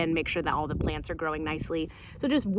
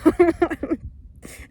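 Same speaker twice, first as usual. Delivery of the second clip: high loud laugh; real laugh breaking out; burst of laughter; 9 semitones higher, 7 dB louder than usual. Real, not acted. Laughing at joke.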